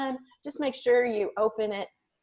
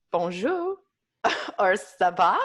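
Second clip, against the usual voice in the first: French words. Shown as a demonstration. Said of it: "I could say".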